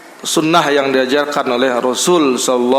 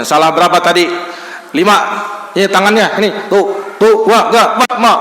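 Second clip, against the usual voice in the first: harsh scolding teacher; 4 semitones higher than usual. Acted. Teacher acting out caning a pupil, harsh scolding. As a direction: bark at the pupil while counting mistakes.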